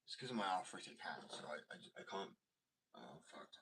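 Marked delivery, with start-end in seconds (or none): 2.9-3.5 whispered curse. Real, not acted. Hand hurts, swears softly.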